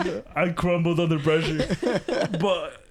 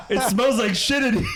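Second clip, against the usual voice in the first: higher, laughing mock shout; mock roommate outburst; 5 semitones higher than usual. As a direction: bark it like the disgusted roommate. Roommate's retold exclamation.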